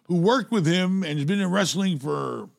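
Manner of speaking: talking away from the microphone; turned away from mic. Real, not acted. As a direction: voice off-mic, a bit distant. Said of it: "Talk in your mic".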